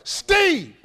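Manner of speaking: high-pitched calling out of a name; comic holler. Pretend. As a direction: holler up at him in a squeezed high voice. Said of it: "I'm hollering at myself".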